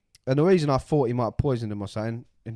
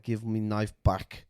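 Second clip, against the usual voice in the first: put-on Russian accent; slower than usual. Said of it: "he's Russian".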